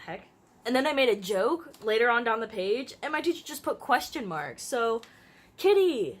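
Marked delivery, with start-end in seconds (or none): 5.6-6.2 much higher and louder call; screamed. A narrator's reading. Starson calling after the runaway dog, screaming. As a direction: yell the name after the dog. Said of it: "Starson screamed after the old dog".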